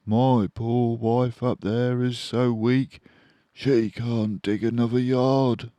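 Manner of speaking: worried for his weak wife; sad Badger voice. A narrator's reading.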